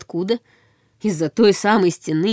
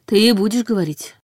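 menacing. A narrator's reading. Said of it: "таким голосом".

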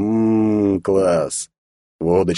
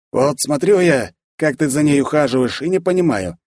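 unhurried; 6 semitones higher than usual. A narrator's reading. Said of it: "неспешно произнёс Лёха".

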